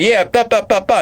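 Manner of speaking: high-pitched yapping babble; hammed-up high jabber; mock yapping woman. Mimics the woman yapping back.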